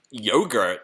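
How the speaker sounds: questioning "Yogurt" with an American long O; "Yogurt" as YOH-gurt, American style; American pronunciation of yogurt. Retold or imitated. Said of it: "You say it's so funny".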